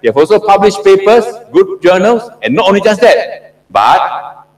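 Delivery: proud supervisor boasting to rivals and bosses; bragging supervisor. Retold or imitated. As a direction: crow about every student's success. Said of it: "I'll tell the world".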